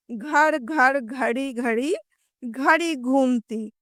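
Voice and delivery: घर घर घड़ी घड़ी said slowly, each word distinct; slow, careful repeated घ sounds in घड़ी घूमती; slow tongue twister. Shown as a demonstration. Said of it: "जल्दी जल्दी बोलना है". (घर, घड़ी का घ धीरे और साफ़)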